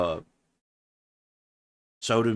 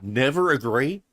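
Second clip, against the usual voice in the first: rising, disbelieving repeat of never agree; incredulous echo; 4 semitones higher than usual. Real, not acted. Echoing the coach's rule in disbelief. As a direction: question it like it's absurd. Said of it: "What are you talking about?".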